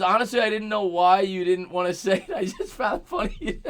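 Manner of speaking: breaking into laughter while reading; amused, laugh creeping into the words; laughing read-aloud. Real, not acted. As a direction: read the message through giggles. Laughs reading a viewer's message.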